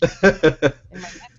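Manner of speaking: slow, loud, laughing through a put-on deep voice. Shown as a demonstration. Friend mocking her own recorded voice, laughing slow. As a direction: drag it out while cracking up. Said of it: "I have a deeper voice".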